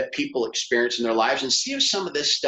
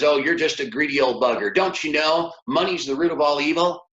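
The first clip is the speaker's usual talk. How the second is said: mildly mock-upset scolding; a touch of an indignant lady; 2 semitones higher than usual. Upset class lady scolding the teacher, mock indignant. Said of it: "she says".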